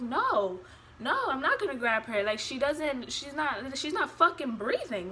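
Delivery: retold alarmed refusal, mildly agitated; emphatic protest building to the swear word; scared refusal. Mother refusing to grab her limp newborn, scared. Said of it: "So I'm scared".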